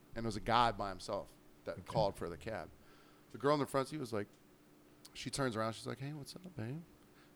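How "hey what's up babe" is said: very soft, hushed, sweet and friendly voice. Speaker retells a woman in a cab's front seat greeting a passenger: imitating a sweet, friendly greeting. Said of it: "she was like being sweet and friendly".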